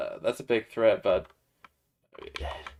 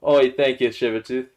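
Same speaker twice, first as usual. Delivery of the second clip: lightly put-on British accent; a hint of a Cockney British accent; 3 semitones higher than usual. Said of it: "say that in British".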